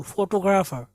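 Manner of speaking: फोटोग्राफर as "fo-to-gra-fer"; correct pronunciation. Shown as a demonstration. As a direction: keep "to" and a tight "gr" in फोटोग्राफर. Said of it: "फोटो, not फोटो". (फोटोग्राफर में "टो", "टू" नहीं)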